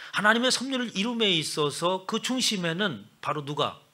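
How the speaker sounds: loud, high fervent preaching; full-force preaching. Acted. Pastor fervently preaching to the congregation, loud and rising.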